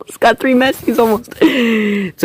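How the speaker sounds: high quick giddy laugh. Real, not acted. Gamer reacting to Aguero, high giddy laugh. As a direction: giggle at the luck.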